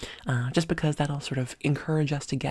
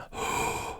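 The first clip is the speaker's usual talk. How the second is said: quiet deep breath; 8 dB quieter than usual. Shown as a demonstration. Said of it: "We want a".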